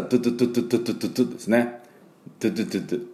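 トゥトゥトゥトゥ as quick light tu taps; トゥ sound practice, tapped; tu sound drill. Shown as a demonstration. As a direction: repeat トゥ fast with a short tongue flick. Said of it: "この発音のポイントは".

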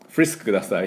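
フリスク as English "Frisk", no vowel after f; 英語風すぎる発音. Retold or imitated. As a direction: order フリスク in polished English sounds. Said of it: "ちょっと発音が、". (フリスク を英語の発音のままで)

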